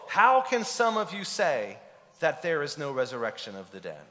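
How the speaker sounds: voicing Paul's shock to the church; flabbergasted. Paul asking the Corinthians, flabbergasted. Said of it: "He's flabbergasted".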